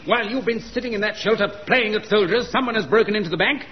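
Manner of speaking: usual speaking voice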